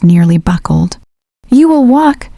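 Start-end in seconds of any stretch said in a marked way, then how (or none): 1.5-2.3 sudden, higher-pitched order; sudden command. A narrator's reading. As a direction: say it as an abrupt command. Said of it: "he said suddenly".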